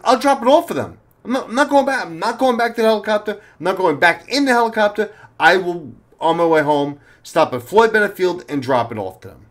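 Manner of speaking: high-pitched, insistent, repeating itself; agitated refusal. Retold or imitated. Cop on the phone with his partner, high insistent refusal. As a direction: keep refusing, voice pushed up high.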